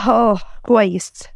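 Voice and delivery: slow, heavy, pretending to be fine; slow, troubled reassurance; unconvincing fine. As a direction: drag out the words, clearly not okay. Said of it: "مش باين من صوتك".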